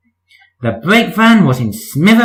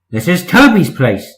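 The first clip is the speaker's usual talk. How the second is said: grumbling; 3 semitones higher than usual. Acted. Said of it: "they grumbled".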